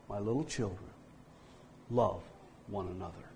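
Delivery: very soft, fading to almost nothing; feeble old man. Retold or imitated. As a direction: let the voice die away on the last words. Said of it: "in a very feeble voice".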